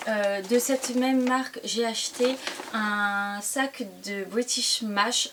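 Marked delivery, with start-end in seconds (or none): 4.3-5.3 put-on British Mash said slowly in a playful English accent; English-accented product name, self-mocking. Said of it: "avec mon accent anglais on adore".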